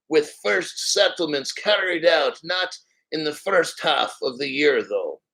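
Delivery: Russian accent. Shown as a demonstration. Playing Aksakov on the first settlements, Russian accent. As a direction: finish the statement in a Russian accent. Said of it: "That was pretty good Russian accent".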